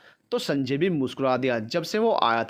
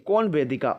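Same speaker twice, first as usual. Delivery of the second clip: a light surprised "कौन वेदिका?" with a small lift; understated surprise; surprised question; 3 semitones higher than usual. Acted. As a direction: son caught off guard by the name, mildly surprised. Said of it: "वो हैरानी से बोला".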